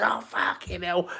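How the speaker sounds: high, slow, strangled groan of a fan; imitating fan despair. Retelling the streamer's meltdown, hammed-up despair. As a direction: mimic the streamer losing it. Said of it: "and he goes mad".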